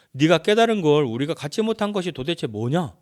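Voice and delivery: mildly acted loud retort; indignant challenge. Eliphaz questioning what Job knows, mock indignant retort.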